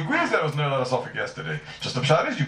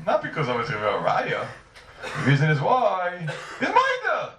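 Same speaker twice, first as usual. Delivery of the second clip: laughing; 5 semitones higher, slower than usual. Acted. Acting out the Rosh's answer.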